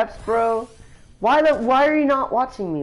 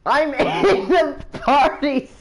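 laughing; 4 semitones higher, slower than usual. Real, not acted. Laughing at friends in party.

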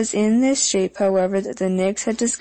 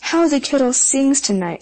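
Bess; 6 semitones higher than usual. A narrator's reading. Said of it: "said Bess".

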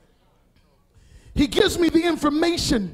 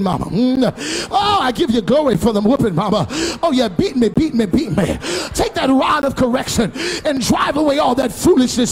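hammed-up child thanking mama for a whooping; exaggerated mock praise of a whipping; mock grateful child. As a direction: play a child gushing over his punishment.

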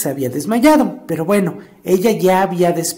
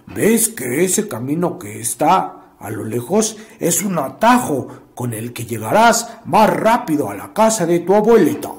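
lightly voiced sly wolf; 2 semitones lower than usual. Wolf tricks the girl.

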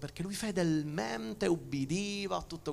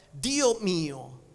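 anguished cry; 7 dB louder than usual. Acted. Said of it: "Gesù gridò con gran voce". (grido angosciato su "Dio")

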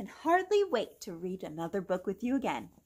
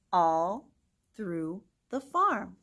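bright, singsong storybook read; gentle storytime reading voice; reading to children. Acted. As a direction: read it aloud to little kids. Reads picture book to children.

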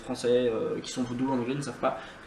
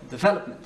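"development" with the second syllable VEL stressed; 4 semitones higher, faster than usual. Shown as a demonstration. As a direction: hit VEL in "development", rest light. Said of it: "on accentue le V". (accentué sur « vel » dans « development »)

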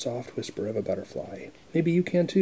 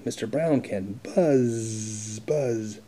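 slow buzzing; much slower than usual. Acted. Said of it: "He can sound like a bee".

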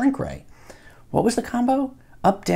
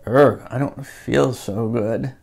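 queasy groan; 4 semitones lower, slower than usual. Acted. Cody shrinks, feels sick.

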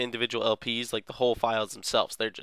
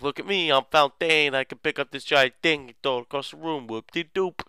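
a lightly voiced boastful villain, higher; mocking swagger, pitched up a little; 4 semitones higher than usual.

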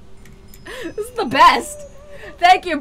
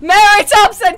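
taunting call; 3 semitones higher than usual. Real, not acted. Player taunting a ghost to make it kill their friends, taunting call.

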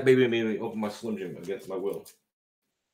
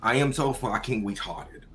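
quicker run-through of a sounded-out phrase; mock fast reading. Showing friends he can read it fast, quicker run-through. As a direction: rattle off the gag phrase in one go. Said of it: "I can do it pretty fast".

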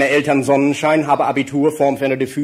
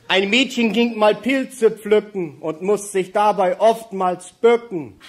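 mock-solemn poem; much slower than usual. Reciting a comic rhyme.

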